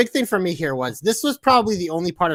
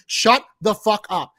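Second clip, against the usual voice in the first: slow, louder, each word spaced out; retold angry order; 5 dB louder, slower than usual. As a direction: lay it down slowly at the TV. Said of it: "I literally said to my T V".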